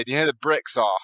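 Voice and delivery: a light Australian accent on the question. Shown as a demonstration. Jokingly asking the host in a mild Australian accent. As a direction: ask it like an Aussie, lightly put on. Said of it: "let me turn on my Australian".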